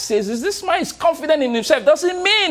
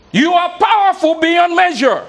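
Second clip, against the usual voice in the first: higher, louder proclamation; with conviction; 8 semitones higher, 4 dB louder than usual. Shown as a demonstration. Speaker urging the room to say it louder. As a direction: ring it out with full conviction. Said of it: "say this with conviction".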